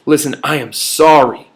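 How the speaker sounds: calm, sincere and steady; mean every word of it; sincere apology. Shown as a demonstration. Speaker showing a congruent apology, sincerely. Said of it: "That is congruent".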